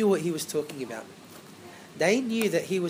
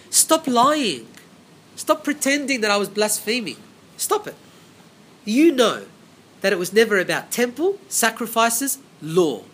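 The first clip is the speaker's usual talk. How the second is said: stern rebuke. Retold or imitated. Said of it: "that's what Stephen is saying".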